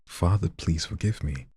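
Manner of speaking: showing viewers how he plays the plea; dramatic plea. Shown as a demonstration. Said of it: "You see what I'm doing?".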